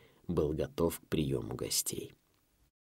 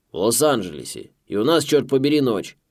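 loud, brash American boss; 5 semitones higher, 7 dB louder than usual. A narrator's reading. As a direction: bark down the phone line. Gruff boss on the phone.

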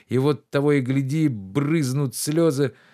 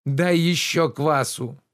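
indignant master Oblomov; 5 semitones higher, slower than usual. Acted. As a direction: scold the servant with wounded pride.

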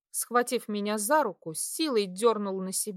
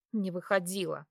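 usual speaking voice

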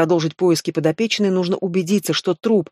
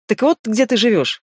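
hard smirk; 5 semitones higher than usual. Acted. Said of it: "жёстко ухмыльнулся следователь".

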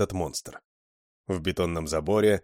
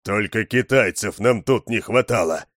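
grumbling; 6 dB louder than usual. Acted. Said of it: "проворчал Мол".

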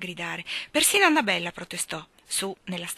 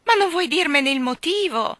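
anxious; 9 semitones higher, 8 dB louder than usual. A narrator's reading. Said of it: "guardò ansiosamente".

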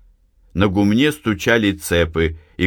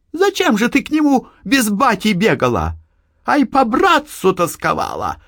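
high, loud women's quarrel; heated quarrel; 13 semitones higher, 3 dB louder than usual. A narrator's reading. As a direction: trade bitter jabs. Quarrel, voices alternate. (ссора матери и дочери на повышенных тонах)

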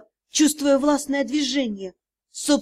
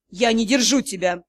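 menacing calm; 4 semitones lower than usual. A narrator's reading. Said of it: "с угрожающим спокойствием".

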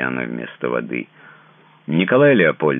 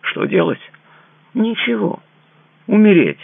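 despairing cry; 6 dB louder than usual. A narrator's reading. Despairing lover wants to die.

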